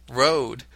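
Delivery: ROAD drawn out into two beats, ro-ahd; demonstrated pronunciation. Shown as a demonstration. Host reading British accent tips to a Briton, two-syllable ROAD. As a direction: stretch "road" into ro-ahd, falling at the end. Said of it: "would be pronounced".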